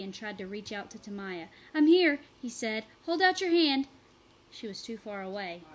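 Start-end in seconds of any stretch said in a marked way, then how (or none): 1.7-2.2 very loud reassuring call. A narrator's reading. Reaching Tamaya. 3.1-3.9 loud, higher urging; urgent call. A narrator's reading. Reaching for her.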